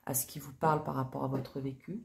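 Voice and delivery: talking around a sip of drink; while sipping a drink. Real, not acted. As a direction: speak between sips. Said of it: "Excusez-moi, je bois en même temps".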